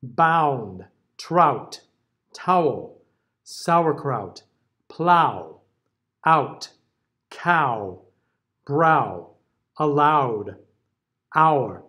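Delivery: each word read out with a clear ow glide; careful demo word list; diphthong word list. Shown as a demonstration. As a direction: model each word, ow held on ah then sliding to oo. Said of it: "a lot of spellings for this particular diphthong".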